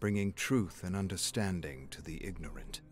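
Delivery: lightly voiced unhinged seer, low and hushed; a hint of a creepy prophet, dropping to a whisper; eerie madman. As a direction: read it like a madman confiding his visions. Reading a mad patient's journal.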